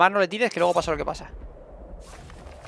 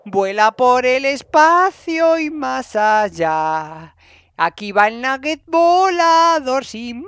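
very slow, higher, louder theatrical call; mock epic announcer; 6 semitones higher, 6 dB louder, much slower than usual. Player narrates a flying nugget like a hammed-up epic announcer. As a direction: ham up a grand launch into space. Flings a unit into the air.

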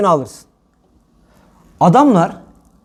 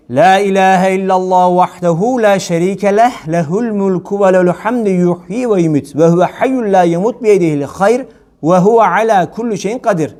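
dhikr recitation. Acted. Recites dhikr formula again.

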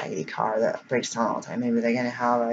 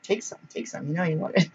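high, playful tempting voice; coaxing flyer voice; 4 semitones higher, 4 dB quieter than usual. Acted. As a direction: coax like a cheeky little advert. Voicing a tempting tear-off flyer.

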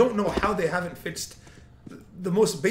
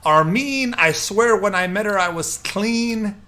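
mock preacher; 3 semitones higher, 5 dB louder, slower than usual. Continues speech parody.

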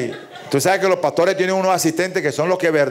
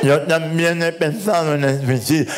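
cleft-lip voice. Acted. El ñato habla.

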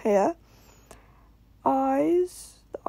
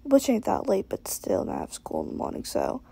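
dead tired; 4 semitones lower than usual. Real, not acted. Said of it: "if I sound dead tired".

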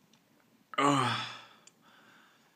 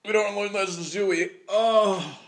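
high, loud and strained; forced out through a burning throat; strained with pain; 8 semitones higher, 7 dB louder than usual. Real, not acted. Burning from hot food.

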